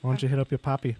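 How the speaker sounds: hushed teasing whisper. Real, not acted. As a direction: whisper it slyly. Teasing aside.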